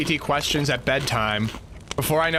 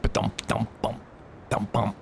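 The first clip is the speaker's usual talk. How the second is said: low thudding ba-dump sounds; imitated bumping noise; 6 semitones lower, 6 dB quieter than usual. Gamer guessing whether it will make noise, imitated low bumps. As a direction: mimic dull bumps in a low register. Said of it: "make, like, a bump".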